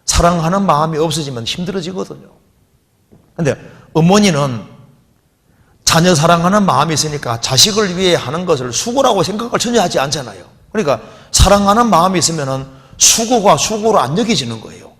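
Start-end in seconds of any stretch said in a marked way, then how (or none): none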